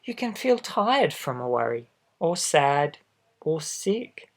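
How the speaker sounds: lively storybook read-aloud; reading to children. A narrator's reading. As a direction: read it out to little listeners. Reads picture book aloud.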